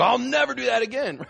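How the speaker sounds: high-pitched mock resolve; overfull sinner's vow. Preacher mimicking someone who just overate, high mock vow.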